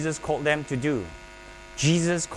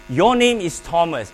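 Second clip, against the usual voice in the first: retold loud reply; 2 semitones higher, 6 dB louder than usual. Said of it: "Everybody said so loudly".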